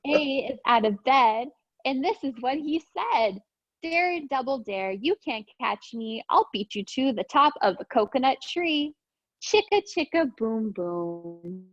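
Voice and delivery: lively storybook read-aloud; sing-song picture book reading; reading to children. Acted. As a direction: read it bouncy for little kids. Reads picture book to class.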